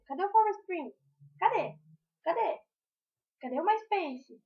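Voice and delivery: loud, high exasperated calls; exasperated shout. Real, not acted. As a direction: cry out where did it go. Mocking faded sites, exclaiming.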